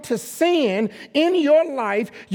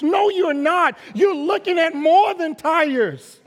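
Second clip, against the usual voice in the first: louder and higher, hammering the point; a pastor raising his voice at the crowd; preaching yell; 6 semitones higher, 4 dB louder than usual. Real, not acted. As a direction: call them out with force. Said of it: "I'm not trying to yell at you".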